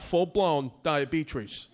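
"diabetes" with a stray R, like "diabetrees"; dad's mangled "diabetes", R before the last vowel; extra R added. Retold or imitated. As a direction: slip an R into "diabetes". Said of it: "He's adding R's into words".

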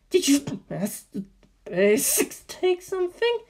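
high, sugary receptionist; a high front-desk voice with an edge; suspicious receptionist. Acted. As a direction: receptionist catching an intruder, high and sweet. Receptionist interrogates.

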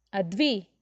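a half-hearted scolding shout; mother calling her daughter sharply; mild mock yell. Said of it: "ಜೋರಾಗಿ ಕಿರುಚಿದಳು".

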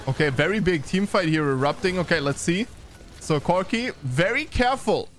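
lightly animated esports commentary; game caster keeping up with the action; live play-by-play. Real, not acted. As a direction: call the team fight as it unfolds.

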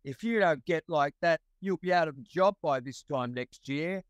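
mock Aussie warning, Australian accent. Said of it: "in his Aussie accent".

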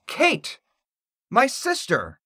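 very high, frantic exclamation; terrified shout. A narrator's reading. Jenny insists to her mom about Kate, terrified shout. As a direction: cry out in rising disbelief and terror. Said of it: "shouted Jenny, growing more and more terrified".

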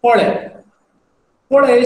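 "Polai" clipped short, said fast in passing; fast everyday "Polai". Shown as a demonstration. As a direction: toss "Polai" off quickly like in chat. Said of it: "speak this word slightly fast, it sounds this way".

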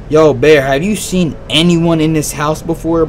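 ordinary talk

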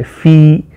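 "ફી" drawn out with emphasis; teacher's stressed "ફી"; weight on ફી. Shown as a demonstration. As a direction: press on the long "ee" of "ફી". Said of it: "ફી ઉપર વધારે વજન અપાય છે".

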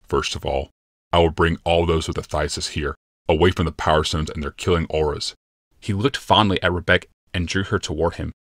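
a hint of a brooding emperor, calm and certain; grave Yalmoth. Yalmoth's lines.

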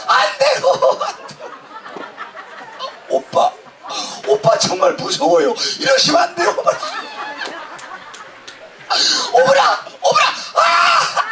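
high hammed-up pleading girl; acted victim. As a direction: play a squealing helpless woman. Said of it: "이건 어디까지나 연극이야". (과장된 높은 목소리로 애원하는 여자 연기)

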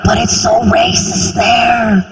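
high, gasping mock horror; shocked outsiders. Outsiders hearing I'm from South Carolina, mock horror. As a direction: ham up the pearl-clutching outsider. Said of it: "they're always like".

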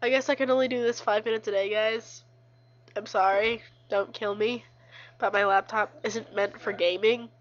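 stuffy blocked-nose voice. Real, not acted. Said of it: "I can't breathe through my nose right now".

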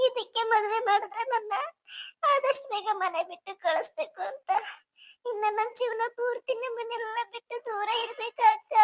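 acted tearful bride, voice held back; weepy, hurt questioning. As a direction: plead through light sobs. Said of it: "ಜಾಸ್ತಿ ಅಳಬೇಡಮ್ಮ ನಿಸರ್ಗ".

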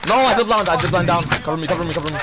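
cover me shout. Real, not acted. Downed, calling teammate for cover.

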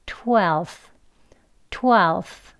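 twelfth with the f dropped, straight into the th; easy twelfth. Shown as a demonstration. Teacher showing the easier twelfth, f left out. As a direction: glide from twelve into th, no f. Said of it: "번데기 발음만 합니다".

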